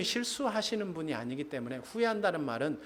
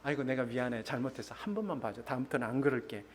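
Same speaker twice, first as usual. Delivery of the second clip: mock husband apology; 3 semitones lower, 4 dB quieter, faster than usual. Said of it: "상대방이 화를 내면".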